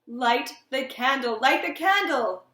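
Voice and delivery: frightened, cracking cry; voice breaking. A narrator's reading. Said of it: "His voice broke".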